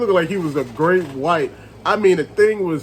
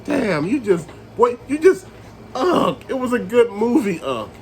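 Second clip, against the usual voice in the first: mock upset; 3 semitones higher than usual. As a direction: imitate a let-down nephew protesting to his uncle. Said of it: "you'd be upset with me".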